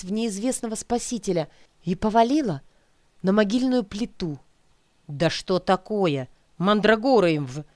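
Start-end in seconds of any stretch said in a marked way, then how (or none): 5.1-7.6 annoyed cursing, cut off mid-swear. Acted. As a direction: curse under your breath in irritation. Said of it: "ругнулись у меня над ухом".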